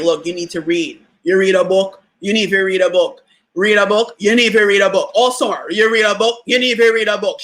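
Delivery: lightly exaggerated Jamaican accent, nagging and repeating; a Jamaican mother pushing a book on her kid; exaggerated Jamaican mom. Mom telling her to read all summer, hint of Jamaican accent. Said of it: "She didn't really sound like that, but I'm exaggerating".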